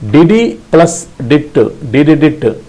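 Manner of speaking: Didi plus dit chanted in even beats; rhythmic Didi dit. Shown as a demonstration. Morse teacher practicing continuously with students. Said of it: "you have to practice continuously".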